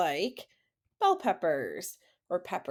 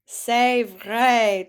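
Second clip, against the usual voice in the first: louder "C'est vrai" announcing the answer; teacher revealing the answer to the class; emphatic answer; 6 dB louder than usual. Shown as a demonstration. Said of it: "Très bien".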